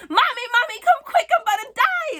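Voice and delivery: high, frantic call for mommy; panicked child's scream. Retold or imitated. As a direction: scream for mom as if dying. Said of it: "start screaming at the top of my lungs for my mother".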